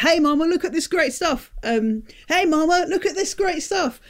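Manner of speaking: hammed-up pushy seller chatting her up; sleazy salesman come-on. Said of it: "all he's learned to do is to say".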